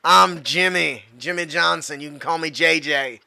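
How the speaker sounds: stoner voice. Acted. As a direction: introduce yourself as a mellow stoner. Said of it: "I gotta put on my stoner voice".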